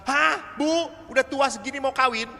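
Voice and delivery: high, loud startled question; mock surprise. Priest teasing a mother registering the wedding, high and astonished. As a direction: act amazed the old lady wants to marry.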